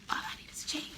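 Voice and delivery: high, breathy-free whisper of a dream; wishful whisper. Retold or imitated. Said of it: "it would be like".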